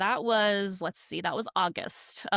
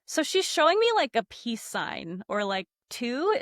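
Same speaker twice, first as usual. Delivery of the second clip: puzzled self-quote; 4 semitones higher than usual. Retold or imitated. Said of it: "And I was like".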